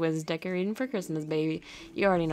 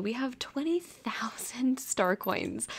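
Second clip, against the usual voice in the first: whispering; 3 semitones higher, slower than usual. Real, not acted. Whispered aside.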